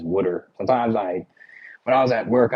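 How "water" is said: wooder with a short oo; Philly pronunciation. Shown as a demonstration. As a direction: say wooder as Philadelphians do. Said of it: "only person that says".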